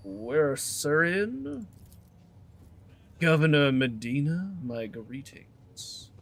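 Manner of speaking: a lightly voiced dry posh governor; slow and dry, a curt nod in the voice; dry greeting. Governor greeting Abelard curtly in a light posh voice. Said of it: "Nods dryly".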